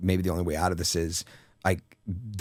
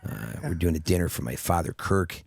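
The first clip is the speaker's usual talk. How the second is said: lower, softer Michael Douglas impression; put-on Michael Douglas voice; 3 semitones lower, 3 dB quieter than usual. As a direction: drop low and hushed, playing Michael Douglas. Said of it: "I was affectating my voice".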